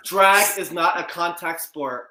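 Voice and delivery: slow, loud and deliberate; dramatic slow announcement. Pretend. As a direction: announce it like a grave verdict. Mock announcer line.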